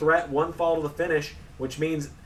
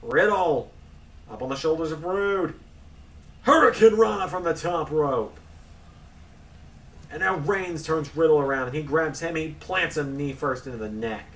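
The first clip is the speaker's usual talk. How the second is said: excited ringside play-by-play; wrestling commentator. Acted. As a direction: call the action live. Live play-by-play of the match.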